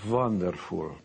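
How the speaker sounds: put-on "Wonderful" said as vanderful, with a light Hungarian accent; Hungarian mom's accent. Son shows mom his first big check, light Hungarian accent. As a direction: lightly imitate a Hungarian mother saying "Wonderful". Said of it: "in her broken English".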